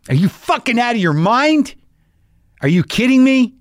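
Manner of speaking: high, incredulous exclamations of delight; mock outrage. Real, not acted. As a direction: act scandalized at how good it is. Outraged delight at the pecan cobbler.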